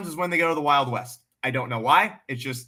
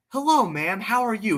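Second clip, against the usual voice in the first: mock friendly greeting; 7 semitones higher than usual. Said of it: "He's so nice and friendly".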